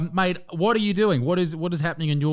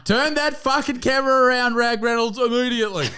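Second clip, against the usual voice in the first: laughing; 10 semitones higher than usual. Real, not acted. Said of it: "Is something amusing?".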